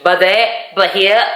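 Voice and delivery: "but there", "but here" each with a reduced "buh"; adopted Welsh phrase. Shown as a demonstration. Showing her newly learned phrase, "but there", "but here" as "buh-there", "buh-here". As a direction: say "but there", "but here" as separate little units, lifting at the end. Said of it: "I say".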